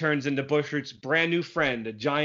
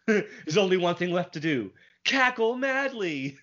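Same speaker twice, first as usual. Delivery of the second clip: mad scientist; 3 semitones higher than usual. Retold or imitated. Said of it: "decides to start cackling madly".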